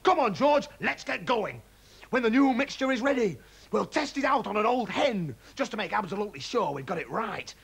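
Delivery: high and loud; dad hurrying George off to test it; eager excitement. A narrator's reading. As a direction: rush them out the door.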